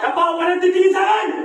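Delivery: barked order, loud and high; angry shout. Acted. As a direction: yell it as a threat. Armed officer yells at hostages.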